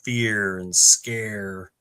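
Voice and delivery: FEAR and SCARE slowed and leaned on; emphasized words. Retold or imitated. Podcaster quoting a creepy character's key words, emphasized. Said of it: "he emphasizes the words".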